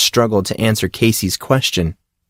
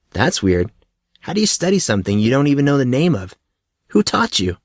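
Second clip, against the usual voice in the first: lightly voiced, higher, puzzled young man; a hint of an eager, clueless friend; curious young Monson; 4 semitones higher than usual. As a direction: ask it like a naive newcomer. Monson questions Casey.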